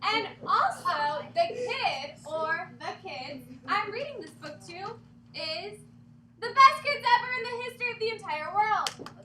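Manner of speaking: loud, high, slow building praise; excited praise. Pretend. Teacher praising the class at the end, excited. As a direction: gush over the kids, big finish.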